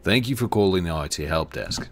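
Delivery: help desk greeting in a lightly faked British-Australian accent; put-on British-Australian accent. Shown as a demonstration. Demonstrating the work phone greeting, put-on British-Australian accent. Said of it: "I've actually used it at work".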